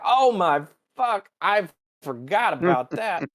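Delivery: slow, high dismayed gasp; mock dismay. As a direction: realize it with a sinking shock. Spock remembers the dinner.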